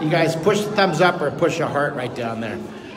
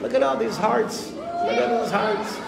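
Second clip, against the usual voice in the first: excited; 5 semitones higher than usual. Real, not acted. Hearts going crazy.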